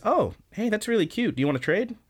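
high, bright-eyed girlish mock voice; cutesy girl voice. Pet offers to trade handkerchiefs, in a high cutesy girl voice. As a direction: chirp it up high like an excited schoolgirl. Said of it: "And Pet says".

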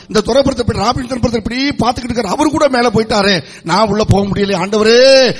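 mock-tearful plea to God; wailing lament. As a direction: lament aloud, pleading with the Lord. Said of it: "புலம்பி அழுகிற ஒரு காரியம்". (புலம்பி அழுவது போன்ற முறையீடு)

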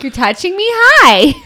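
high squeaky dog voice. Retold or imitated. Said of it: "She was like".

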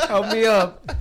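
lightly voiced helpless friend on the floor; imitating Tony. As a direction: beg for help half-laughing. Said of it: "Tony's just like".

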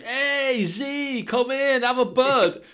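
high, strained zombie greeting. Retold or imitated. Zombie calling his mates in for a beer, high and strained. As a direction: put on a squeaky zombie calling them over.

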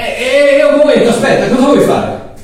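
high, startled panic; mock-frightened Mario; alarmed. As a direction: recoil as the nails come out.

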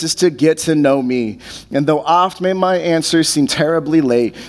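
measured, heartfelt poem recital; poem reading. Acted. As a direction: pastor reading a poem about waiting, gently recited. Pastor reads poem aloud.

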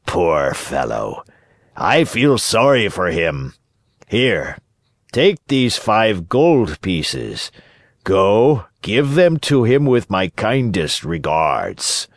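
slow, measured pity for a poor man; slow, magnanimous puppet master; sympathetic puppet master. Acted. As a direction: draw the words out kindly, like a big showman. Voices Fire Eater in the story.

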